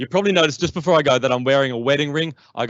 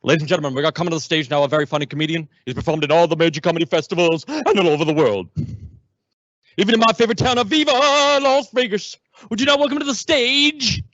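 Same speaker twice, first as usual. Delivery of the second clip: announcer voice climbing higher and louder to a big finish; showbiz announcer building up; 5 semitones higher, 4 dB louder than usual. Retold or imitated. An impersonator of a famous singer introducing the comedian, announcer voice rising high and loud. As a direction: hype the act, rising to a high Vegas crescendo. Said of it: "this was his introduction".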